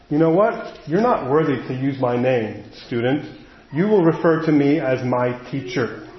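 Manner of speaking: lightly acted aloof teacher, a little low; cold, distant teacher. Schoolteacher putting a student in their place, mildly cold and distant. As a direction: put a touch of chilly distance between you and the student. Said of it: "your teacher is very cold and distant".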